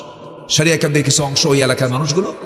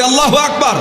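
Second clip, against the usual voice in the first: higher, louder takbir call; 10 semitones higher than usual. Shown as a demonstration. Preacher urging the crowd to say আল্লাহু আকবার louder. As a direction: lift the crowd with a loud Allahu Akbar. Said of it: "জোরে বলি".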